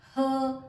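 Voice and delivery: her said as a lone, punched 'huh'; isolated h sound. Shown as a demonstration. Teacher giving learners the letter's sound, isolated h. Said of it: "और ह इसका sound है".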